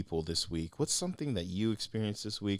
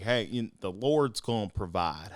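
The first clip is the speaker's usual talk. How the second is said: Southern preacher; 2 semitones higher, 5 dB louder than usual. Retold or imitated. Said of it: "He's gotta be Southern".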